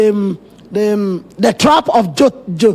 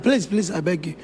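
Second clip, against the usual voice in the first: begging; 7 semitones lower, 10 dB quieter than usual. Acted. Moses begging God.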